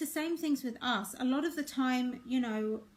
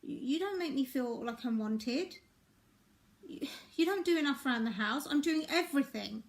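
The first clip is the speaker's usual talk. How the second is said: accusing partner. Shown as a demonstration. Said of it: "We're more likely to say".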